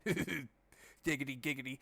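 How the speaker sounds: slow sleazy giggity; Quagmire impression. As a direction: drawl it like Quagmire. Catchphrase impression.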